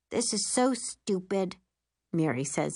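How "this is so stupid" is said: slow, sulky grumble. Acted. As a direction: sulk like a bored teen.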